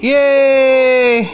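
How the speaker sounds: loud happy cheer for the pet; excited cheer. Real, not acted. Owner cheering the pet's catch, loud and excited. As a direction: cheer it like a trick just landed.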